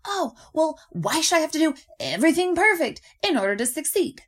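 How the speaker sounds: high, loud, whining mock complaint; mock whining about perfection; whiny complaint. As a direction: whine it like a sulky kid. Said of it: "other people pull this psychological extreme".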